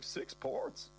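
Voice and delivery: high breathy disbelief; shocked. Acted. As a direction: gasp it in disbelief. Shocked reaction.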